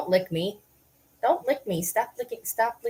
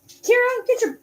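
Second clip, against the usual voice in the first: high, loud call across the room; calling a dog over from afar; 3 dB louder than usual. Real, not acted.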